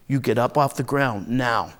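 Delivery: low, controlled command; stern order. Acted. Older brother orders beaten Les to stand, stern low command.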